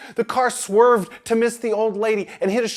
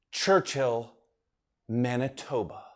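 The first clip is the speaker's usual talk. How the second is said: softer, lower "Churchill Manitoba"; reverent hush; 8 semitones lower, 7 dB quieter, slower than usual. A narrator's reading. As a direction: say it like a sacred name. Ed knows, says it reverently.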